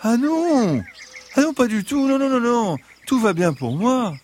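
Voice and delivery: high, bright fox protest; eager fox voice. Acted. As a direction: wave off the worry, as the fox.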